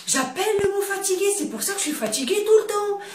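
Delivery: light up as the penny drops; a mother realizing why she is always tired, quickly surprised; sudden realization. Retold or imitated. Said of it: "Et j'ai dit".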